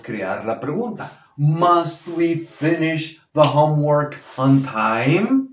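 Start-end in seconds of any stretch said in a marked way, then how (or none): 1.4-5.5 slow, rising sharply on "time"; question intonation. Shown as a demonstration. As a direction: ask it slowly, lifting "time" at the end. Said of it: "esa inflexión de interrogación". (inflexión de interrogación, subiendo en "time")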